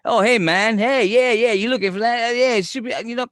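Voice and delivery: loud, high-pitched Boston store clerk; thick Boston accent. Retold or imitated. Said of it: "He's got this real thick Boston accent".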